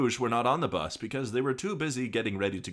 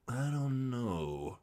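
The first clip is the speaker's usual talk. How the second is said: sexy lady voice; 3 semitones higher, 4 dB quieter, much slower than usual. Acted. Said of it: "best sexy lady voice".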